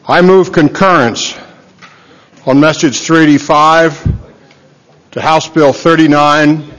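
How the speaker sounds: breathless, pausing for air; out of breath. Real, not acted. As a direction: speak between gasps after a short run. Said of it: "I'm a little out of breath".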